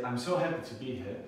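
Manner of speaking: "I'm so happy to be here" with a lively, varied tune; happy-sounding pitch. Shown as a demonstration. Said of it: "it sounds like I'm happy to be here".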